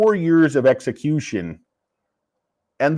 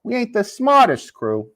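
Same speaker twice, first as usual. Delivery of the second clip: hushed scolding coworker; 6 semitones higher than usual. Retold or imitated. Hushing a coworker in story.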